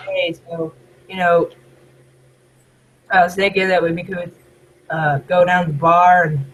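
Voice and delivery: understated American accent, lightly Southern. Shown as a demonstration. Showing a non-stereotypical way, light Southern American accent. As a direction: keep the Southern US accent casual and subtle. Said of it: "I try not to do the stereotypical".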